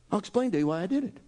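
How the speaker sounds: rattled off fast; hurried retake. Acted. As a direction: rush it out as a quick aside. Restating Jesus' line, rushed.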